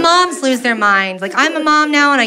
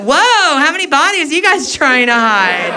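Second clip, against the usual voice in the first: mock alarm. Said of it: "And I went".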